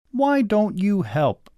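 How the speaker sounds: put-on high, slow child's question; drawn-out high kid voice; complaining children. A narrator's reading.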